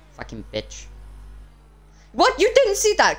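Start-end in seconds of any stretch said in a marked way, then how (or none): 2.1-3.2 shouting. Real, not acted. Outraged at police in game.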